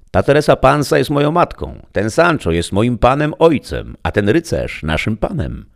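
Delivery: put-on high, bright girlish voice, eager to tell; a young girl proudly naming her family; young village girl. (wysoki dziewczęcy głos młódki)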